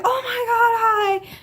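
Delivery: high, slow, teary "oh my God"; emotional mom greeting. Retold or imitated. Mom greeting her daughter at the door, teary and high. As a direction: greet her like you're about to cry with joy. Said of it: "my mom was like".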